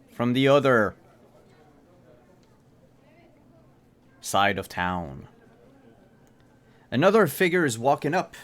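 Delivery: dramatic narration with long pauses; measured storyteller reveal, key phrases punched; game master's scene setting. A narrator's reading. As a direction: set the scene, pausing for suspense.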